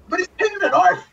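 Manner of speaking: high, mock-tearful plea; high, half-crying protest; whimpering plea. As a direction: whimper it like a desperate kid. Pleading, near-crying tone.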